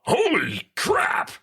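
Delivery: high, drawn-out cry of amazement; shocked outburst. Retold or imitated. Reacting to his suddenly dropped voice, high mock shock. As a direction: imitate astonishment in a stretched high voice.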